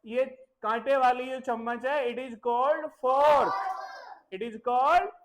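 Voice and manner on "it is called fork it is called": slow, each word drawn out; slow teaching repeat. Shown as a demonstration. Teacher repeating the fork name to children, slow. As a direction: repeat it slowly for the class. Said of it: "फिर से".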